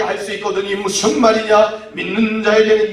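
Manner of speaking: measured, even scripture delivery, projected; mock dignified. Preacher parodying a refined reading of Jesus, mock dignified. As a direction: recite it with lofty composure. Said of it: "고상하게".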